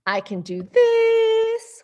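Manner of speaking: high whispered effort; strained whisper. Acted.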